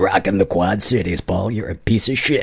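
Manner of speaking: put-on radio DJ announcer voice. Reading a survey answer aloud, slipping into a put-on radio dj voice. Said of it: "A D J voice came".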